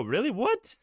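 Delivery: high, shocked what; sudden disbelief; surprised. Real, not acted. Shocked by video title.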